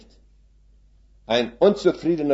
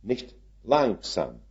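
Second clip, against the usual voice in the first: slowly; 5 dB quieter, slower than usual. Shown as a demonstration. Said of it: "slow oder langsam".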